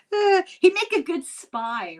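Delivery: breathy teasing whisper. Real, not acted. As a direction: whisper it like a secret. Teasing aside about sneaky husband.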